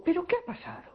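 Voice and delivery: pitched high, startled asking what happened; shocked, a young woman seeing her relative cry; alarmed question. Retold or imitated. Asking the crying mother what happened, high and startled.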